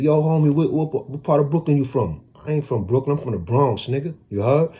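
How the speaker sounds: playing the curious Brooklyn dudes asking where he's from; mock Brooklyn homie. Bronx guy voicing Brooklyn inmates in lively banter.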